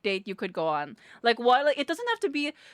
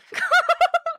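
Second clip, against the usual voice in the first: high burst of laughter; real laughing burst; 7 dB louder than usual. Real, not acted. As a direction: squeal of laughter.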